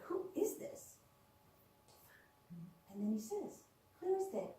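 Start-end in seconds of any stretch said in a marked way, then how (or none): 0.0-1.0 high, unvoiced whisper of alarm; whispered question. Woman at sink whispers to a voice in her head. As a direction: breathe it out, startled and hushed. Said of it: "I'm like".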